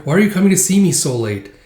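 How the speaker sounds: questioning daughter. Acted. Daughter questions father's late visit, puzzled.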